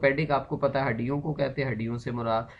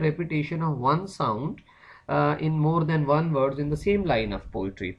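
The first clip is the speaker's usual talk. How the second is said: reading a definition slowly for notes; slow dictation; 2 semitones higher, much slower than usual. Shown as a demonstration. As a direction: drag each word so the class can copy.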